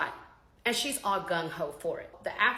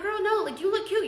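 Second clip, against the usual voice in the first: high, loud gushing; hyping up her friends for a photo; excited hype; 12 semitones higher, 4 dB louder than usual. Retold or imitated. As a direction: gush over how cute they look.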